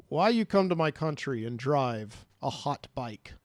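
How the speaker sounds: lightly put-on Mexican accent of a police chief; attempted Mexican accent. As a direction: question him in a rough attempt at a Mexican accent. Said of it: "I don't know what accent I'm doing".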